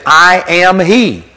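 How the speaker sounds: "I am he" spoken slowly with every word given weight; grammatical full phrase. Shown as a demonstration. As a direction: say "I am he" in full, slow and deliberate. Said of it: "you have to say".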